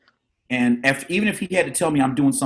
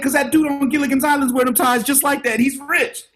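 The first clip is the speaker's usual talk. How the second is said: put-on kid voice; 14 semitones higher than usual. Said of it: "I said".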